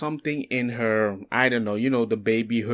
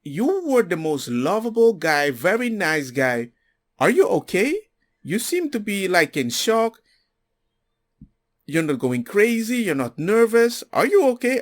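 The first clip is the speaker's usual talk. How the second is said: imitating worried relatives; 6 semitones higher than usual. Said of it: "everybody was like".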